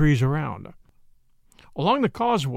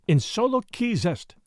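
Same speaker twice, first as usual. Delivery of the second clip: higher piped repeat of the bird's words; piped starling call; 4 semitones higher than usual. Acted. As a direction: pipe it like a tame starling. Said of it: "a tame starling ... piped out".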